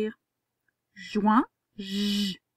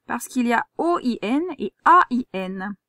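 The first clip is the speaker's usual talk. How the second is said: "O I N" and "A I N" spelled out louder, letters apart; contrasting spellings; 4 dB louder than usual. Shown as a demonstration. Teacher warning pupil about O I N versus A I N. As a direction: lean on the two spellings to show the trap. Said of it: "tu comprends le piège".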